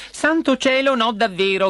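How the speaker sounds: high, appalled exclamation; princess's cry. A narrator's reading. Princess appalled at kissing frog, crying out. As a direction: cry out in refusal. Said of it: "gridò la principessa".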